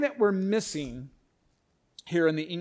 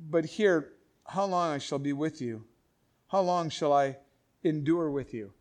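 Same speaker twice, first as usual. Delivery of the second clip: grieving Jesus. Shown as a demonstration. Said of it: "This is where the grieving comes in".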